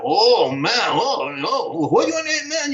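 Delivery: a light, playful impression of thrilled listeners; imitating Japanese producers. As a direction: mimic the excited studio guys, rising to a high pitch on "what do you want". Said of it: "I'm sorry for acting like that".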